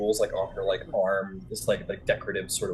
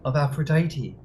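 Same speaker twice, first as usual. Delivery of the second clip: raised, gracious introduction; priestess Thalia; 4 semitones higher than usual. Acted. Thalia introducing herself to the freed man. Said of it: "He goes".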